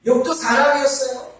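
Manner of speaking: ordinary talk, nothing marked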